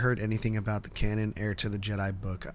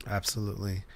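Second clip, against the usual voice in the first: put-on British accent; 5 dB quieter than usual. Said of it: "I said that in a British accent".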